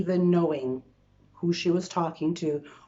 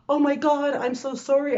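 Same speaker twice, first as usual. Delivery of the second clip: startled, louder oh my God then sorry; flustered apology; 6 semitones higher, 4 dB louder than usual. Retold or imitated. Apologizing to the yelling stranger in the store, flustered. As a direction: blurt out a rattled apology. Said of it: "I was just like".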